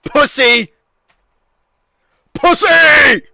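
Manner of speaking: loud, high mocking yell; taunting yell. Real, not acted. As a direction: jeer at her. Taunting friend who refused.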